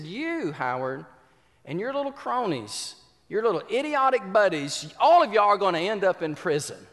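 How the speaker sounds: put-on teacher damning the boy and his friends; teacher's curse. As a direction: pronounce his ruin like an angry teacher.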